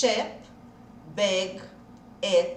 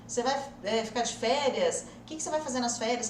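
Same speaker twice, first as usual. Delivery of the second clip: imitating a conversation; faster than usual. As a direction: rattle it off like a curious friend. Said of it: "Sabe aquela coisa assim". (imitando uma conversa rápida e curiosa)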